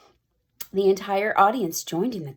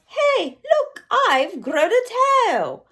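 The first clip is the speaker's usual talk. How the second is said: put-on high surprised girl cry; girl shouting at her classmates in alarm; girl yelling; 13 semitones higher, 5 dB louder than usual. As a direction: squeal it in shock. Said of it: "She yells".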